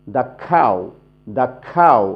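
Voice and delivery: "the cow" with "the" said as "da". Shown as a demonstration. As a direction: say a short "da" before "cow" in "the cow". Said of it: "দা উচ্চারণ করতে হবে". ("the cow"-এ the-এর উচ্চারণ "দা")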